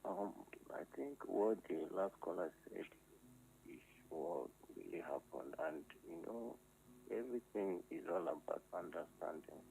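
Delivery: caller on a phone line; thin phone-line voice; over the phone. Real, not acted. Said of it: "Can you speak into your phone?".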